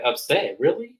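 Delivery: a high, mock-surprised "Really?"; incredulous. Lisa disbelieving that Ayan is upset, high mock surprise. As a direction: act out disbelief at the news.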